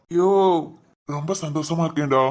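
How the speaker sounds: father overwhelmed at his son's wedding; tearful joy. Acted. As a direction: choke it out with joy. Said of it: "ஏன் அழுகுற?".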